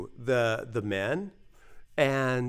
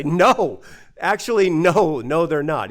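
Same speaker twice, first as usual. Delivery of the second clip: louder, insistent no, no; urgent correction; 2 semitones higher, 6 dB louder than usual. Retold or imitated. Telling his brother the typhoon is no joke, louder. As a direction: cut him off, set him straight.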